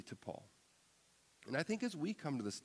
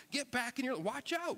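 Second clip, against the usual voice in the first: much higher and louder, alarmed; urgent shout; 12 semitones higher, 3 dB louder than usual. Retold or imitated. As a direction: shout it at the swerving teenager. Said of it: "but some urgency".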